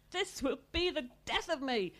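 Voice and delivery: loud, high wail; crying out. A narrator's reading. Mother lamenting from the bathroom, loud and high. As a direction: wail it from the next room. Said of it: "their mother cried".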